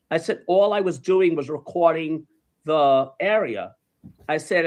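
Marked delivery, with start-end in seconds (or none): 0.5-3.7 slow, measured explanation; deliberate, conciliatory reenactment; acted placating. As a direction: explain carefully to placate someone. Explains himself to stranger.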